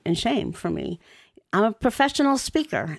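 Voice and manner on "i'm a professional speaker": talking after tongue surgery; words blurred by a healing tongue; speech impediment. Real, not acted. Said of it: "This is not the voice of a professional speaker".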